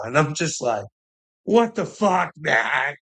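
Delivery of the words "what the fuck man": disbelieving shout. Retold or imitated. Retelling his reaction to a friend's text, shouting in disbelief. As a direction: yell it like you can't believe what you just read. Shocked reply to friend's message.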